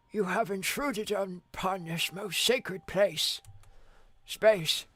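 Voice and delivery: slow, solemn ancient being; grave creature voice. Acted. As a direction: pronounce doom slowly and gravely.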